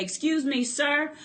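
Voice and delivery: sassy, firm put-down; with attitude. Shown as a demonstration. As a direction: tell him off with sass, slowing at the end. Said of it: "get an attitude and say".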